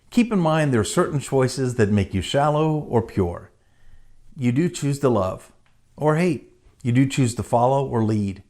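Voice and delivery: measured poem reading with pauses; poem recitation. Acted. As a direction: recite rhymed lines earnestly, pausing after each. Recites the poem they wrote.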